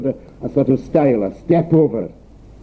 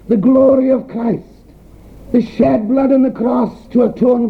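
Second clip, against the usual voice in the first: higher-pitched, insistent sermon delivery; impassioned preaching; 6 semitones higher than usual. Real, not acted. Preacher to congregation on missing the gospel, impassioned preaching. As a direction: pile up the phrases in a high preacher's pitch.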